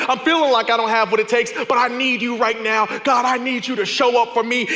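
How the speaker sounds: loud, urgent plea to God; pleading prayer. Acted. Preacher voicing a prayer to God, loud and pleading. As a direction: cry out to God for help. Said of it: "preacher voices a desperate prayer".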